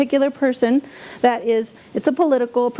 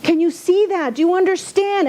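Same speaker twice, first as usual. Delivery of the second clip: upset lecture; 6 semitones higher than usual. Retold or imitated. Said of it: "And I get so upset".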